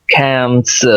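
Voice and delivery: "cans" with a puff of air on the k; plosive aspirated k. Shown as a demonstration. Teacher showing how to read it, plosive "cans". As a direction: push out the k of "cans" with pressure, open "cat" vowel. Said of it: "इस तरह से पढ़ना है".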